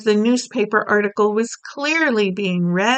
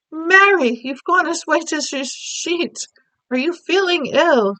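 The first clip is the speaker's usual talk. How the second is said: concerned Queen; 7 semitones higher, 3 dB louder than usual. Acted. Queen sees maid go pale.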